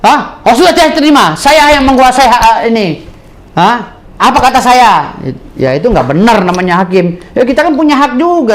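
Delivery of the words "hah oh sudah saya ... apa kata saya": mocking the judge. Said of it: "Nggak akan pakai".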